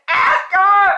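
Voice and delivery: a sudden forceful shout in a voice not her own; urgent shout. Retold or imitated. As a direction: snap out the order in another's voice. Nipsey urging her in retold vision.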